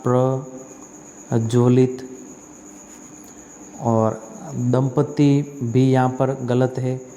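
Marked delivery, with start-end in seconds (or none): 0.0-2.1 spelled out slowly. Shown as a demonstration. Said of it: "तो प्रज्वलित में ये द्विज नहीं आता".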